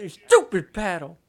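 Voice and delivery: slow, lightly hammed-up annoyance; mock pissed-off. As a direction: imitate a player cursing his paddle, drawn out. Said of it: "So pissed".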